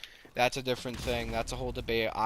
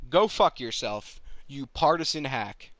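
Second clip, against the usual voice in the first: louder, slow, real anger; angry snap; 4 dB louder than usual. Real, not acted. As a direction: spit out go fuck yourself slowly. Ranting at partisan politicians.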